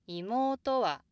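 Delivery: 妹は high and loud through と, then a big drop on は; 妹は stepping well down on the final は; bigger downstep. Shown as a demonstration. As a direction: widen the fall after 妹. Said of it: "could get a little bigger".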